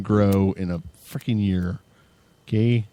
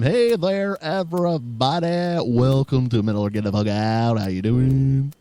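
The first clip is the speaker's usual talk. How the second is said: radio DJ voice; 3 semitones higher than usual. Pretend. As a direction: welcome listeners like a put-on radio DJ. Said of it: "I just wanna talk like this all the time".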